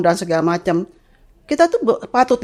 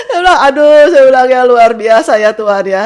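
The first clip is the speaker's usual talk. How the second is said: louder, voice near crying; overwhelmed, almost crying; moved to tears; 4 semitones higher, 7 dB louder than usual. Real, not acted. Mother overwhelmed, telling the host about God's kindness.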